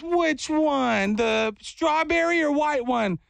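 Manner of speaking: high, unhurried counter-lady voice; Miss Glenda. Retold or imitated. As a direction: imitate a sweet lady offering choices. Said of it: "And then she goes".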